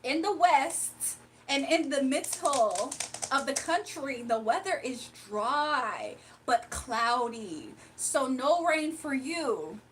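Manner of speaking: slow, even weather-forecast read; mock weather anchor; news reporter voice. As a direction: play the TV weather presenter. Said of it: "And then they say".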